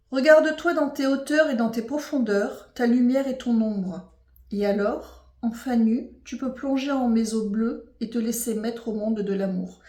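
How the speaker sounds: measured, solemn reading voice; reading aloud. Acted. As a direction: read the card text like a verse. Reads card text aloud.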